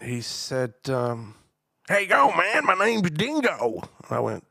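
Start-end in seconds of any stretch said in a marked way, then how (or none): 1.9-3.8 slow, high drawn greeting; stranger voice. Retold or imitated. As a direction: greet him slow and friendly. Southern stranger introduces himself.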